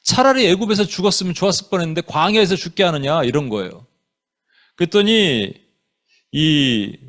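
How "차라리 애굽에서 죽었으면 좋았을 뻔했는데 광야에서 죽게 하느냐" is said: mildly aggrieved protest; acted complaint. Israelites complaining to Moses in the wilderness, mild indignant complaint. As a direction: complain on behalf of a frustrated crowd. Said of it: "막 그냥 컴플레인 하는 거예요".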